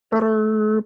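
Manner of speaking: high, loud, held fanfare; triumphant flourish. Real, not acted. Storyteller ending the tale, loud triumphant flourish. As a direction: sing it out as a big finish.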